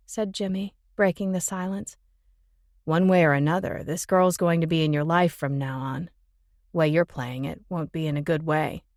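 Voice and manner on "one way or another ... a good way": male voice. Acted. Jimmy lecturing Ben.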